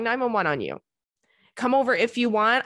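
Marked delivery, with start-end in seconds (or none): 1.6-2.6 mock echo of a guy's half-hearted invitation; mocking the guy's offer. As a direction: parrot his lazy invite with a rising lilt. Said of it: "if a guy has ever presented to me".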